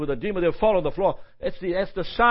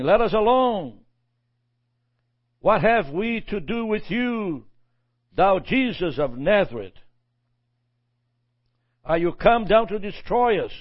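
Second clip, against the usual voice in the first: demon crying out; 2 semitones higher than usual. Retold or imitated.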